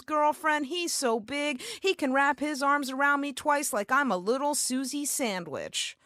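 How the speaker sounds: put-on high, dreamy salon girl gushing; gushing stylist voice. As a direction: swoon over him, sassy and sweet. Stylist gushing about boyfriend.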